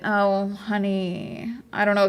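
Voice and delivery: very slow, drawn-out, pitying "Oh, honey.". Real, not acted. Streamer reacting to his reply, slow pitying oh honey. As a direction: stretch "Oh, honey." out like you pity someone clueless.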